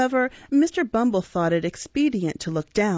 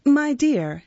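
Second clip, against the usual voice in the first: higher-pitched, deferential address; 7 semitones higher, 4 dB louder than usual. A narrator's reading. Undertaker presenting the boy to his wife, deferential. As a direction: address her meekly, pitched up. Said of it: "said Mister Sowerberry deferentially".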